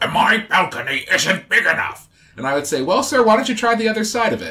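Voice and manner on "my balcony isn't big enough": put-on slow, angry, cranky old man voice. Joking about working guest services, the speaker does his put-on angry old guy voice. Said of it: "I do my old angry guy".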